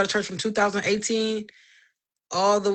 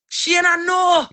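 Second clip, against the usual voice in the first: demonic daddy voice; 9 semitones higher, 6 dB louder than usual. Retold or imitated. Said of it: "it sounded like my daddy".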